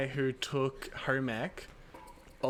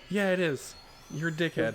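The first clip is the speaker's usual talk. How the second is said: dismissive; 3 semitones higher than usual. Retold or imitated. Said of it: "That sounded so dismissive".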